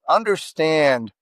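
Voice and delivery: usual speaking voice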